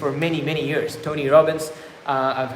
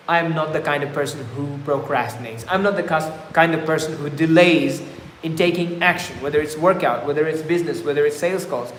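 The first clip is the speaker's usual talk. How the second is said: confident affirmation. Shown as a demonstration. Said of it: "something like this".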